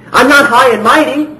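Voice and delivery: a light, humble take on Jesus speaking; voicing Jesus humbly. Preacher voicing Jesus to the congregation, gently humble. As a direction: let him say it gently, without pride.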